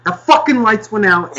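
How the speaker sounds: exasperated shout; angry outburst. Real, not acted. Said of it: "I'm getting angry at you guys".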